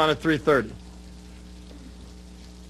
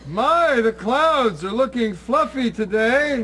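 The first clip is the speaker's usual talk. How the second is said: pointed signal line; 5 semitones higher, slower than usual. Pretend. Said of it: "I, I said".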